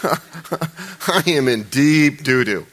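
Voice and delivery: drawn-out, slow mock-dismayed voice; imagining Saul's dismay. Preacher imagining Saul stunned, very slow comic dismay. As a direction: stretch each word in comic dismay. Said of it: "Saul's imagined reaction".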